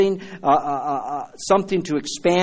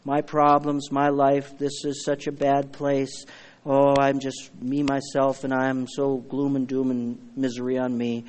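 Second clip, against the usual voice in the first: softer, slow gloomy whine; mock self-pity; 3 semitones lower, 5 dB quieter than usual. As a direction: mope like someone stuck in misery. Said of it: "our eyes will be down here".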